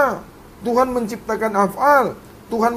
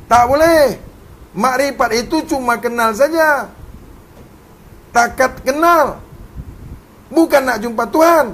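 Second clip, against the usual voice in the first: firm correction; 3 dB louder than usual. Real, not acted. Firm correction after quiet lines.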